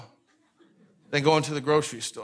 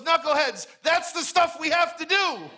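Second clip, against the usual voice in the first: Jesus correcting; 10 semitones higher than usual. Retold or imitated. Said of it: "And Jesus goes".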